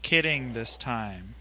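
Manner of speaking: slow and deliberate; dictating. Shown as a demonstration. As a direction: read it out for him to write. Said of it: "Did you write it down?".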